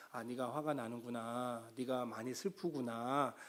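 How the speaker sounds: soft, slow, understanding murmur; gently mirror the child's feelings back; soothing empathy. Retold or imitated. Counselor soothing an angry child, soft and slow. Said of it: "이렇게 공감을 해주라는 거죠".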